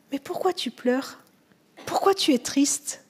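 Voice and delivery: soft, tender asking; quiet, caring enquiry; gentle question. Acted. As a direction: ask softly, as if consoling a mourner. Jesus gently questions weeping Mary.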